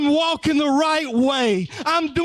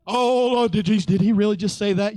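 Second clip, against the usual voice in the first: fast mock shock; 3 semitones lower, faster than usual. Voicing shocked listener.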